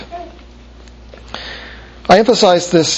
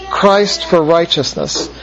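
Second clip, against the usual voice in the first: each word of "Christ for righteousness" laid down slowly and deliberately; slow emphasis; slower than usual. Shown as a demonstration. Teacher fixing a key phrase in students' minds, slow and deliberate. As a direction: let "Christ for righteousness" sink in, slow and weighty. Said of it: "keep in your mind just that phrase".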